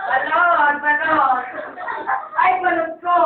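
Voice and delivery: hammed-up camp exclamation; effeminate. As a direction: cry out in a mock effeminate voice. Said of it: "Ba't naman naging bading kayo?". (pabading na pagdaing)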